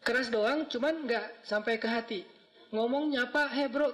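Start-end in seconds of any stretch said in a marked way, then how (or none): 3.5-3.9 mock gruff greeting. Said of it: "kayak orang marah-marah".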